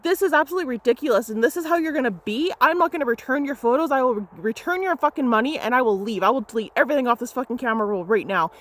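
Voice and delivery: fast angry rant. Retold or imitated. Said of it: "I was like".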